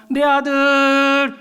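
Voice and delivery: slow, stretched call to his son; father calling out to his son across the field. Retold or imitated. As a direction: call across the schoolyard, drawn out. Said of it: "하고 외쳐주더라는 거예요".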